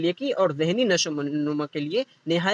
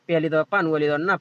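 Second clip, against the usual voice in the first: slow spelling out; faster than usual. Shown as a demonstration. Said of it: "پھر دھیرے سے اس کو".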